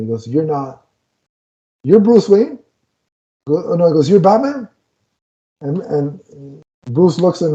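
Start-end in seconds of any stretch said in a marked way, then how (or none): 0.3-2.6 stunned disbelief. Retold or imitated. Barry stunned meeting Clooney. 4.1-4.7 stunned disbelief. Retold or imitated. Barry stunned meeting Clooney.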